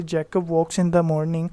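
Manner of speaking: slow, careful read-aloud of the example; teacher dictating an example. Shown as a demonstration. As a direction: read the sentence out slowly for the class. Teacher rereads example slowly.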